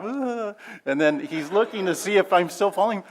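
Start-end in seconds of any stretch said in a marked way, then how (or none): 0.0-0.5 imitating laugh. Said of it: "if you remember his laugh".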